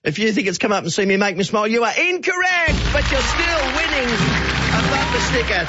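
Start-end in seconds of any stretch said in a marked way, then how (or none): 1.7-5.7 high sing-song ruling, then drawn out slowly; playful announcement. Real, not acted. Radio host to caller Glenn, ruling him wrong but still giving a prize, playful and sing-song. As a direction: tease the wrong answer and soften it with the prize.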